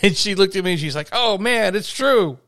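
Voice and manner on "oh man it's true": higher, mock-dismayed little kid. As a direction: play the kid who just lost the argument. Kid's dismayed retold reaction.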